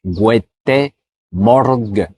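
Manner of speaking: "Gute" puis "Morgen" détachés, lentement; découpe "Gute Morgen" mot par mot; répété doucement. Shown as a demonstration. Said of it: "je te le répète doucement". ("Gute Morgen" répété lentement, mot par mot)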